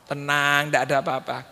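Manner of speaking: low, composed mock reassurance; feigned calm. Father hiding a loss from guests, feigned calm. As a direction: act as if all is well. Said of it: "Pura-pura".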